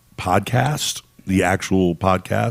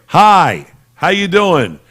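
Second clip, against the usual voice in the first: lightly acted, high-pitched hello; alien visitor greeting; 7 semitones higher, 4 dB louder, much slower than usual.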